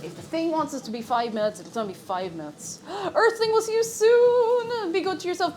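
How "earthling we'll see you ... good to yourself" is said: mock alien voice. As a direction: play a friendly alien leaving. Alien farewell voice.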